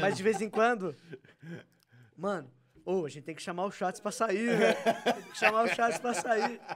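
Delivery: tipsy, words a little loose. Real, not acted. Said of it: "Eu, eu tô bêbado já".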